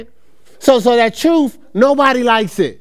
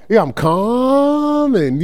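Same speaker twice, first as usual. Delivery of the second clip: mock calm; 3 semitones higher, much slower than usual. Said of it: "I said".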